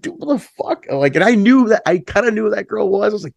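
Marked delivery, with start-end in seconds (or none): 0.0-0.8 very high, disbelieving mock cry; incredulous outburst. Singer reacting to the drummer's confession, high disbelief. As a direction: throw it out in disbelief, pitched way up. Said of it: "And I was like".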